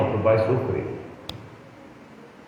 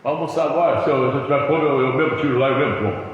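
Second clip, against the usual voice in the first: sulky complaint; 5 dB louder, faster than usual. Retold or imitated. Husband bitter about lunch.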